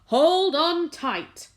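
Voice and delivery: high, loud, slow warning; urgent shout. A narrator's reading. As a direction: call out to brace everyone. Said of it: "shouted the old green grasshopper".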